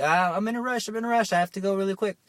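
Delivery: high, flustered hurry; mock frantic rush. Someone late who has to go, hammed-up fluster.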